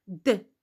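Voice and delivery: just the consonant d of the syllable DE; mute E. Shown as a demonstration. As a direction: release the D without a full 'euh'. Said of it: "Comment je vais prononcer cette syllabe?".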